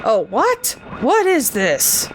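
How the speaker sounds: lightly hammed-up game character's baffled line; Barry impression. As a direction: exaggerate the puzzled question, drawing out the end. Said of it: "That's a, that's a Barry line".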